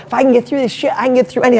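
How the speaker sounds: psyched self-talk in the car; pumped-up mantra. Retold or imitated. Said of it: "I remember sitting in my car going".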